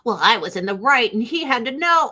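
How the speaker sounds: high, whiny self-righteous voice; mocking excuse. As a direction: parody their excuse.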